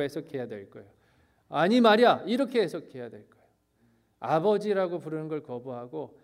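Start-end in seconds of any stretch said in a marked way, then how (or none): 1.5-2.2 acted protest, higher and louder; rough, indignant. Elder son addresses his father rudely, loud and indignant. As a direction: push it out as an angry complaint. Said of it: "라고 너무너무 거칠게".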